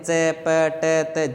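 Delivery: "च, प, ट, त" as separate, drawn-out syllables; consonant sounds demonstrated. Shown as a demonstration. Teacher showing how consonants are pronounced, "च, प, ट, त" spaced out slowly. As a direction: say "च, प, ट, त" one by one, each consonant distinct. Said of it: "जैसे आप व्यंजनों का उच्चारण करते हैं".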